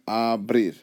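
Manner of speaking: "abrir" opened out as a and brir; divided into syllables. Shown as a demonstration. Teacher opening up the word, "abrir" syllable by syllable. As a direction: stretch and separate the two syllables of "abrir". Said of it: "you open it".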